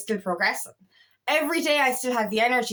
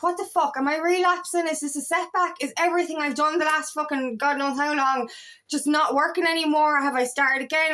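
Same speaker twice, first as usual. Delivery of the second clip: higher-pitched, worried run of questions; retold fretting, pitched up; alarmed self-questioning; 4 semitones higher than usual. Speaker recalls fearing a relapse, alarmed self-questioning. Acting out her worry about relapsing.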